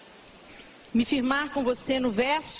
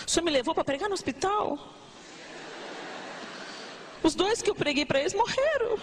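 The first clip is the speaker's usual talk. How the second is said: complaining prayer. Retold or imitated. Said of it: "Não é assim que a gente fala pra Deus".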